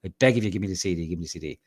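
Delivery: high, loud mock begging, dying down at the end; pleading traveler. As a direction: beg like a desperate man, hammed up. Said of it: "I was like".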